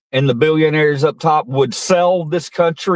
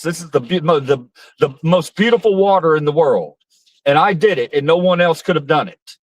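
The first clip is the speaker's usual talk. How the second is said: Trump-style bragging; 3 semitones higher than usual. Retold or imitated. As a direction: brag about bottled water like Trump, half-playful. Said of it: "talking like that".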